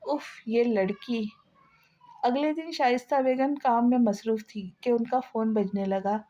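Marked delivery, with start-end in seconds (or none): 0.1-1.3 whisper. Acted. Mother exasperated at daughter.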